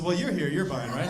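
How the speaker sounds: put-on low, sly teen asking dad to pay; cheeky son angling for a free buy; lightly voiced son.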